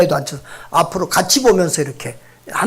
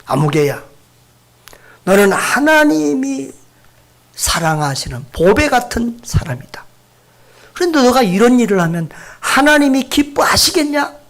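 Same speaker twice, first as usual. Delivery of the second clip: gentle correction; 4 semitones higher than usual. Shown as a demonstration. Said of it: "가능하면 아이들에게".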